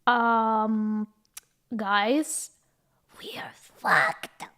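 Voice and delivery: hushed, slowing to a whisper; whispering the bad news to classmates; retold panic. To classmates, a retold hushed whisper of panic. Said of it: "and we're like".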